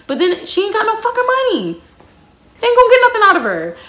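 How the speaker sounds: high, loud and fast through laughter; cackling at their bad luck; laughing rant. Real, not acted. Gleeful laughing rant about mom.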